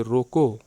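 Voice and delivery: रोको said firmly, then a break; pause after रोको. Shown as a demonstration. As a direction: stop briefly right after रोको. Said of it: "फिर थोड़ा सा विराम करिए".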